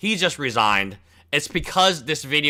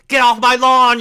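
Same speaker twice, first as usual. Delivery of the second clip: loud grumpy yell; shouting at trespasser; 9 semitones higher, 7 dB louder than usual. Pretend. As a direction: yell it off the porch. Repeated lawn yell, first take.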